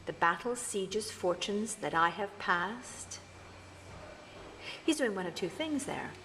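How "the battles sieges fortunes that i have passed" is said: slow, deliberate Othello telling his story; actor telling his story. Shown as a demonstration. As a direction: play it as Othello recounting his life. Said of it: "imagine the actor playing Othello".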